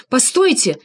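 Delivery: agitated plea. A narrator's reading. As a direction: cry out to stop him. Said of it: "взволнованно заговорил я".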